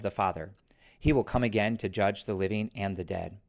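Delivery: liturgical recitation. Acted. Creed recited aloud.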